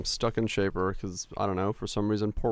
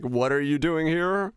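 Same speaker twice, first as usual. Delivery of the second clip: slow, slightly higher mock disbelief; 6 semitones higher, 3 dB louder than usual. Streamer imitating pub strangers questioning his visit, slow mock disbelief. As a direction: drag out the question like a puzzled bar patron.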